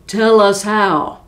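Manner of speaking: a demanding giant shout. Acted. Rude giant demanding the secret recipe, shouting. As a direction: bark the order down at her. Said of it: "the rude giant shouted".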